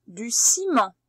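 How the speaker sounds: "du ciment" whispered with no voice, each sound clear; whispered dictation. Shown as a demonstration. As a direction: whisper "du ciment" so the child must listen hard.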